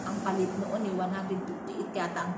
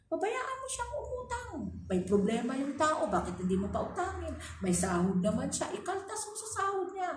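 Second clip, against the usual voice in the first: employer father's voice; 6 semitones higher than usual. Retold or imitated. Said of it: "sabi ng tatay ko".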